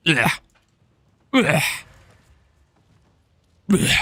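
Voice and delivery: short mock-retching "ugh"; disgusted ugh. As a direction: groan in exaggerated disgust. Disgusted by the name Hatma.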